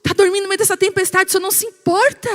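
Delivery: high, loud and fast, desperate alarm; panicked disciple. Retold or imitated. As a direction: cry out to wake the sleeping master in terror. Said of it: "e fala pra Jesus".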